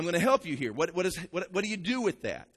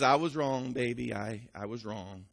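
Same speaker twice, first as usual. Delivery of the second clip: apologetic husband; 5 semitones lower than usual. Retold or imitated. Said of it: "And he says".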